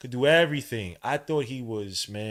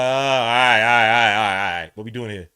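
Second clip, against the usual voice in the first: acted reaction; 11 dB louder than usual. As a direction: act out a fan's loud reaction. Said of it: "And you're like".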